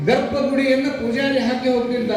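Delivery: high, sustained declamatory preaching; preaching narration. Real, not acted. (ಏರುದನಿಯ ಪ್ರವಚನ ಶೈಲಿ)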